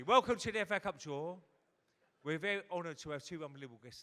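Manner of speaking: loud, high mock TV presenter opening; TV presenter Graham Kelly. Comic imitating the FA Cup draw host welcoming viewers, booming presenter voice. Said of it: "Graham Kelly".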